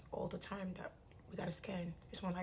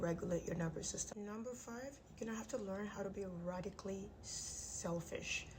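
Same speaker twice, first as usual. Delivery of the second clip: talking through clenched teeth; jaw wired shut. Real, not acted. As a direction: speak with teeth wired together. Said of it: "My jaw is wired shut".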